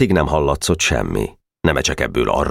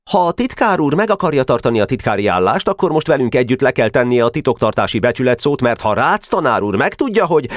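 high-pitched official speech; boy president lecturing; 7 semitones higher than usual. A narrator's reading. President demanding an oath from the secretary, high and official. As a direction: lay down the club rule until cut off.

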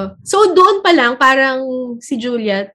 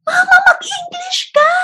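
put-on much higher, whiny little girl voice; child's whiny plea. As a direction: beg like a kid embarrassed by her mom. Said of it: "si Julia parang sabi niya". (parang batang nagmamakaawa, matinis ang boses)

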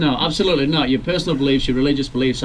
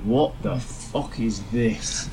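stunned disbelief; 3 semitones lower, 6 dB quieter, much slower than usual. Retold or imitated.

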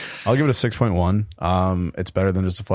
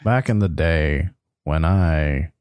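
slow, grave documentary narration; Morgan Freeman voice; much slower than usual. Acted. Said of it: "the Morgan Freeman thing".

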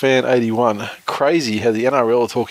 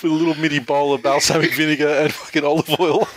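laughing through words; 4 semitones higher than usual. Real, not acted. Mocking hipster brunch, cracking up.

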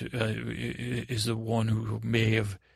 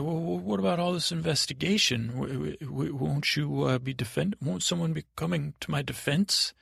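higher, stammering appeal; worried prisoner; 4 semitones higher than usual. Acted. Accused boy asks who will defend him, worried. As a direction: stumble anxiously through the question.

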